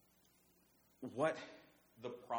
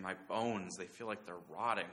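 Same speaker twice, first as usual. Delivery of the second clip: restrained anguish, leaning on each "so"; preacher's mild acting of a burdened penitent; anguished crying out. David confessing his sin to God, in understated anguish. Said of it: "he's crying out and he's just saying".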